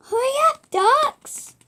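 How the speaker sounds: urgent call. Acted. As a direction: push them to move fast. Urging the ducks on.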